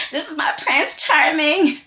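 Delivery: laughing through the line; teasing, laughing impression. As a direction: giggle out the mock swoon. Teasing Quinn's crush, laughing.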